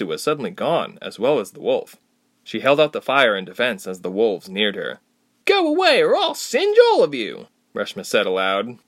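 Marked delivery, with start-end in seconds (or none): 5.5-7.5 high, loud warning cry; shouted threat. A narrator's reading. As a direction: drive the wolves back, loud and high. Threatening wolves with fire.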